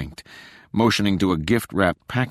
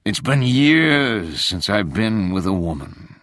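ghostly moan; 2 semitones higher, 4 dB louder, slower than usual. Acted. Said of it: "the voice moaned".

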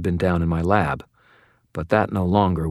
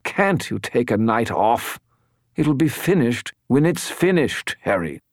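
complaining skull voice; 5 semitones higher than usual. A narrator's reading. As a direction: whine at the wizard like a tired skull. Bob the skull objects.

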